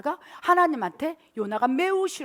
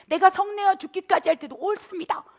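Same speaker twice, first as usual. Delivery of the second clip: loud, higher-pitched retort; acted defiant anger; 7 semitones higher, 7 dB louder than usual. Jonah answering God back, acted indignant retort. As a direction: snap back stubbornly, loud to the end. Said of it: "더 성을 내는 거예요".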